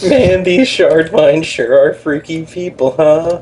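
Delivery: a strange drawn-out character voice; weird voice. Acted. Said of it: "what the hell was that voice?".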